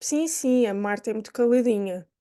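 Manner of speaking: ironic. Shown as a demonstration. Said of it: "pode ter um tom irónico".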